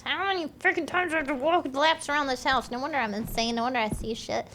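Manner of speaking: loud, fed-up outburst; exasperated rant. Real, not acted. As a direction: rant loudly in frustration. Exasperated at looping round the house.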